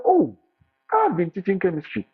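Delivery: high-pitched, loud, eager boast; retelling a wild high reply to the agency; excited retort. Retold or imitated. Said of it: "I was wild".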